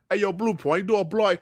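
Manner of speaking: half-hearted mock British accent; terrible British accent. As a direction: lightly attempt a bad British accent. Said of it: "let me do my terrible British accent".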